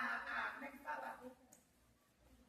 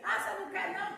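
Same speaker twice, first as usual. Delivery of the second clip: God's question, loud and pressing; 5 semitones higher, 9 dB louder than usual. Retold or imitated. Testifier quoting God to the church, loud and pressing. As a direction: call it out loud as God challenging. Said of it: "vai ali do lado ali".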